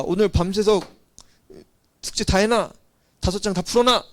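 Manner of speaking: scolding mother drilling homework; mock-scold the child like a pushy mom; nagging parent. Parent scolding a child over homework, nagging.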